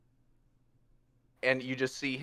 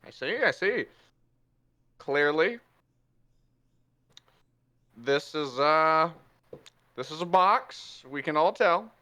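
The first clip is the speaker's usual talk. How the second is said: somewhat higher, self-important musing; pompous Puss; 3 semitones higher than usual. Acted. Puss inspecting the box, mock-expert pomp. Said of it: "He's like".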